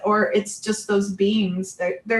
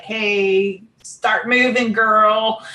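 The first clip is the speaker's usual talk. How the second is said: pushy spirit guide; 3 semitones higher, 4 dB louder than usual. Retold or imitated. Divine guides telling her where to go, pushy. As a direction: nudge someone along firmly.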